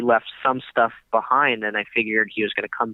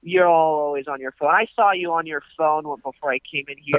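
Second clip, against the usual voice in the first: put-on high, scolding older man; mock millennial rant; 5 semitones higher than usual. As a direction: lecture the millennials, pitched up. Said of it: "this whole millennial rant".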